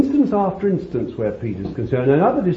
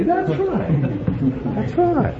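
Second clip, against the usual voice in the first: laughing; 11 semitones higher, slower than usual. Real, not acted. Preacher laughs at own parody.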